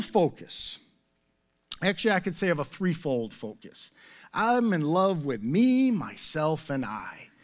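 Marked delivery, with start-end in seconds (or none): 4.3-7.3 mock self-adoration. Mock self-love joke.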